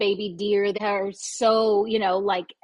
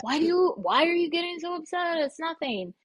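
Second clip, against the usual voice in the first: dismissive peacemaker; 7 semitones higher than usual. Retold or imitated.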